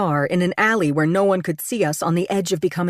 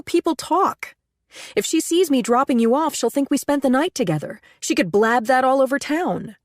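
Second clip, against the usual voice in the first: agitated pleading; 6 semitones higher than usual. A narrator's reading. Woman anxious that her lover is seen, agitated. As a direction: fret aloud about being seen, pitch up. Panicked narrator pleads with Aiden.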